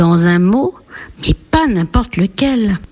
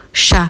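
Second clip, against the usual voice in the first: Chapeau with a long held final O; final O stretched. Shown as a demonstration. Teacher shows the last sound, Chapeau ending in long O. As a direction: hold the last vowel of Chapeau. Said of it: "c'est le O".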